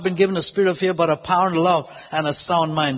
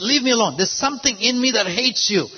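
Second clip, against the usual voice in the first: higher, lightly acted protest; retold fear; 4 semitones higher than usual. Tormented man to the pastor, lightly imitated fearful protest. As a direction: mildly imitate a scared man pushing back. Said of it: "looked at me with fear".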